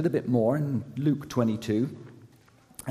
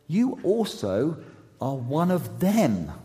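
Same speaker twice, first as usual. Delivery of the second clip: slow, higher-pitched accusation; bystander's slow, raised accusation; accusing; 4 semitones higher, slower than usual. Acted. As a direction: point the finger, drawing it out. Bystander accuses Peter in reading.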